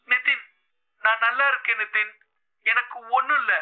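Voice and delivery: choked, brave reply to her worried love; a young woman's voice straining to sound fine; trembling voice. A narrator's reading. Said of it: "அவளுடைய குரல் நடுங்கியது".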